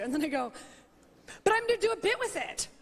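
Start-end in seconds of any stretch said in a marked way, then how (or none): 1.4-2.7 laughing plea. Retold or imitated. Pleading with security, laughing.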